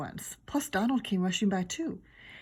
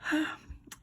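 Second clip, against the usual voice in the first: sigh; 9 semitones higher than usual. A narrator's reading. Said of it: "did a sigh".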